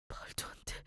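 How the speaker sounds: breathless whisper of disbelief; stunned whisper. Acted. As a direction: whisper it in shock. Husband stunned reading will. (충격받아 속삭이듯)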